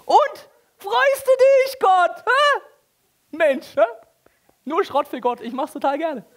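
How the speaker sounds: very high, loud, slow and nagging; whiny mock worshipper. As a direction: whine at God for thanks, high and drawn out. Mock worshipper offering junk sheep.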